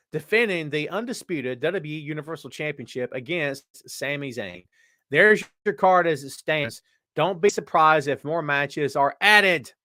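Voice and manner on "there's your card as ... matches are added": slow, breathless after a long read; running out of air; out of breath. Real, not acted. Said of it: "Oh, I'm out of breath".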